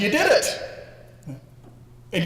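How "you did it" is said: excited cheer. Retold or imitated. Coach cheering him on.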